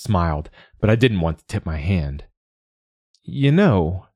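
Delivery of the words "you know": higher, faux-innocent opener. A narrator's reading. Negotiator slyly offering nuns, innocent tone. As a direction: sound like butter wouldn't melt. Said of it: "I said in an innocent tone".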